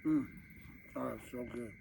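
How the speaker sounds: talking through a mouthful of food; words round a bite of wings; mouth full. Real, not acted. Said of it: "speaking with my mouth full of food".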